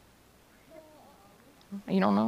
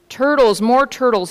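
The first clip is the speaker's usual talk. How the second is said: higher, mildly bellowed demand; 6 semitones higher, 6 dB louder than usual. A narrator's reading. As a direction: call out for more, raised voice. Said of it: "he bellowed and brayed".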